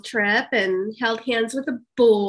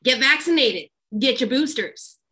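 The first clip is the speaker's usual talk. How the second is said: say it to the back; 2 semitones higher than usual. Shown as a demonstration. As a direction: call it out so the back row hears. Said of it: "to the people in the back".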